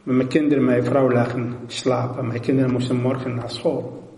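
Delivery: ordinary delivery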